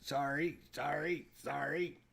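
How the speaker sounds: shaking. Real, not acted. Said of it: "Sorry, I'm shaking".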